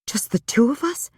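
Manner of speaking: can't believe what he is proposing; incredulous. A narrator's reading. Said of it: "she asked incredulously".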